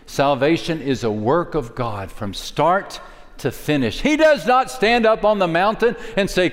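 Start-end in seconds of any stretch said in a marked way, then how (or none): 4.0-6.5 raised preaching. Real, not acted.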